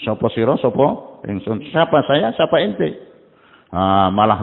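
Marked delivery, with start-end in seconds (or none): 0.0-1.7 "Sopo siro, sopo ingsun" said slowly and softly, each word drawn out; slow Javanese saying. Shown as a demonstration. Preacher repeating the Javanese saying to the congregation, slow and soft. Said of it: "Kalau orang Jawa itu bilang".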